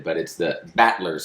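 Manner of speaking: light West Virginia accent, slow and low. Shown as a demonstration. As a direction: drawl it in West Virginia style. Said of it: "I'm gonna say this in my West Virginia accent".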